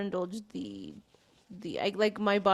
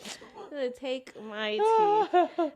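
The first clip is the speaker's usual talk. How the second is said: slow, laughing through the words; 4 semitones higher, slower than usual. Real, not acted. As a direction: laugh while repeating it. Same joke said twice.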